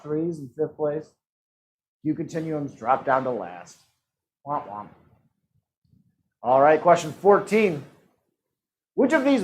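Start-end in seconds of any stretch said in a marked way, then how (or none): 4.5-4.9 low, soft "womp womp"; sad trombone. Pretend. Quiz host teasing whoever dropped to last, mock sad trombone. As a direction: imitate a deflated sad trombone.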